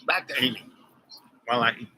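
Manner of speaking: talking while eating; words round a bite of food; mouth full. Real, not acted. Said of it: "not proper to talk with my mouth full".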